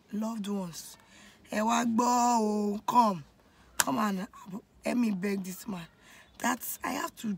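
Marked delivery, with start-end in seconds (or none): 1.5-5.9 slow, drawn-out Yoruba plea for help; pleading call. Retold or imitated. Begging family friends to come and plead with dad, drawn-out call.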